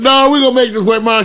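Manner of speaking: pushy cheerful father; the dad insisting to the nervous date, hearty; imitating the dad. Dad voiced in retold story.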